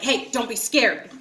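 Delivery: slow, a hint of thug swagger; lightly voiced gangster thug. Imitating her date's video message, light gangster thug. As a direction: imitate a gangster, drawing it out slowly. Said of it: "He sounds like a gangster thug".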